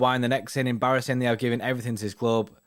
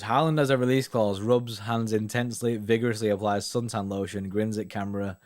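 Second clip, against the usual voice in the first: mock stage directions. Reading stage directions aloud.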